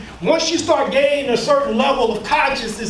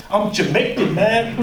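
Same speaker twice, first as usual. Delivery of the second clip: lower, laughing Jamaican accent put-on; mock Jamaican accent; 4 semitones lower than usual. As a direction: poke fun in a mild Jamaican accent. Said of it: "Got his Jamaican accent".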